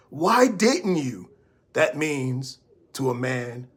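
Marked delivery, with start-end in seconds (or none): 0.1-1.3 slow accusing "Why didn't you?" with a sharp falling "Why"; accusatory. Shown as a demonstration. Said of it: "hear that in the voice?".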